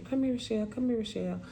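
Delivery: soft older-sister coaxing, retold; gentle coaxing. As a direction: quietly call a child over to help. Sister gently coaxing her to practice.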